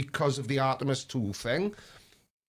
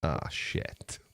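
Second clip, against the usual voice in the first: whispering; 10 semitones lower, 5 dB quieter than usual. Real, not acted. Mic fails, swearing under his breath.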